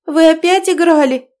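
high, loud reproachful cry; indignant shout; heated outcry. A narrator's reading. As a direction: berate her father in dismay. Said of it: "воскликнула девушка в сердцах".

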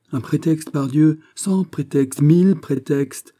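high, slowing, mounting exclamations; eager demand. A narrator's reading. De Guiche begs his friend for a pretext, eagerly insistent. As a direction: pile up the demand, drawing out each number.

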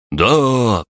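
высокий, громкий дружный возглас; выкрикни с подъёмом; ободрённый выкрик. Acted. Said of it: "приободрились воины". (воины приободрённо кричат)

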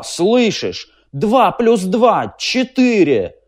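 high, loud, furious and slow; furious defiance. A narrator's reading. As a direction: hurl every word at the machine. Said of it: "Трурль вдруг затрясся от ярости". (Трурль в ярости кричит машине)

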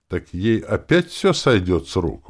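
indignant exclamation; exclaiming. A narrator's reading. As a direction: protest like a wronged little brother. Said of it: "воскликнул Тео".

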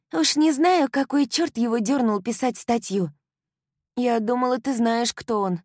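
put-on high, loud, gushing young woman; bubbly best friend bursting with joy; excited girlfriend. A narrator's reading. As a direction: euphoric girl talking nonstop. Kylie explains.

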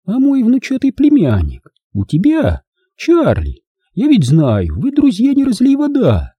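high, sugary lady's voice; honeyed wheedling with high swoops; cloying sweetness. A narrator's reading. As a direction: coo it through an over-sweet smile. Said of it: "Она приторно заулыбалась".

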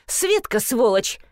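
high angry yelling; flaring up. A narrator's reading. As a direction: flare up at the receptionist. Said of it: "завелась клиентка".

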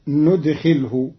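ندخله starting with nu- not yu-; ندخله as nudxilhu; noon instead of ya. Shown as a demonstration. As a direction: open ندخله with a clear noon. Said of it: "بالنون بدل الياء".

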